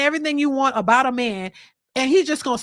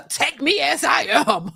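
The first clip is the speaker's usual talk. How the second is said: slow, mocking Take me as I am, stretched out; mocking big girls. Mocking what the big girls say, slow and teasing. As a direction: parody their slogan with a grin. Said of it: "what the big girls say".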